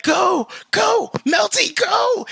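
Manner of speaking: high shouted cheering; teammates cheering. Retold or imitated. Fire team yelling at the player during the raid, high shout. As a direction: yell them on like a crowd at the finish. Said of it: "they're like".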